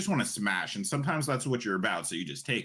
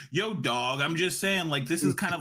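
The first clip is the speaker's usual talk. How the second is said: lightly mimicking a wannabe-cool white guy, a bit higher; white guy trying to be cool; 4 semitones higher than usual. White guy courting a Black person's approval, lightly mocked as trying to be cool. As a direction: awkwardly try too hard to sound cool. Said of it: "white person trying to be cool".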